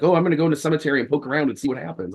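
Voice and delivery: fast, eager and careless; eager young occultist. Retold or imitated. Younger self planning a cemetery visit, fast and eager. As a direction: rattle it off, thrill seeking. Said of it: "I'm like".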